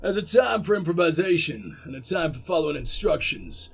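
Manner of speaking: lightly put-on gruff American coach; attempted American gruff. Coach lecturing the team, attempted gruff American accent. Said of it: "Can I do American gruff?".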